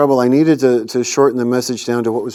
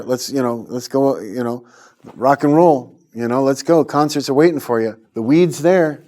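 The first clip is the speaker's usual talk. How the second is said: put-on tempting old friends. Old party friends coax him back, lightly voiced tempters. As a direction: lure him back with a grin.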